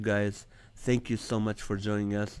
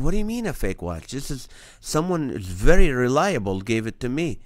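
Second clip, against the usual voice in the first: incredulous; 4 semitones higher, 4 dB louder than usual. Retold or imitated. Retold shock at fake watch.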